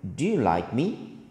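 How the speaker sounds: "do you like me?" with the pitch climbing to the end; rising intonation. Shown as a demonstration. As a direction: lift your voice on "me?" as a question. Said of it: "Intonasinya naik ya".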